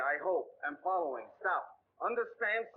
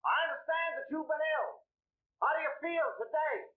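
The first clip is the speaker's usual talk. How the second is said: higher, projecting for a deaf listener; raised voice; 5 semitones higher than usual. Acted. Salesman raises his voice for the deaf commissioner. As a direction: pitch it up so he hears.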